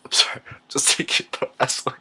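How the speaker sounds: tearful apology, breath catching; choked up. Acted. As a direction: apologize through held-back tears. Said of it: "promised myself I wouldn't cry".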